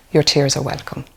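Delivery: gentle reassurance. Shown as a demonstration. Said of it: "Imagine the difference".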